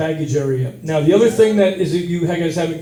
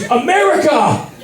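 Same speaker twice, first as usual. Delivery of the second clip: mock wife's scolding; 8 semitones higher, slower than usual. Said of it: "She goes".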